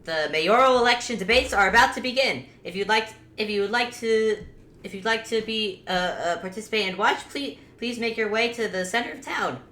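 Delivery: lightly voiced announcer. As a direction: make a halting announcement to the town. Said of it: "The announcer has a cat now".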